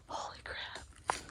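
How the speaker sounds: slow startled whisper. Real, not acted. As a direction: breathe it out, spooked. Hearing steps in empty woods.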